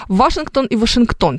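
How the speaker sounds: "Вашингтон" stressed first on ВА, then on the final ТОН; two stress variants. Shown as a demonstration.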